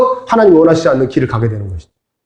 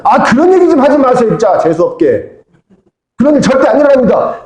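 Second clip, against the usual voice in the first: higher, protesting voice of Peter; Peter talking back; 5 semitones higher than usual. Retold or imitated. Peter talking back to Jesus about his death, higher and protesting. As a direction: push back at Jesus, a little offended. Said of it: "베드로가 막 대듭니다".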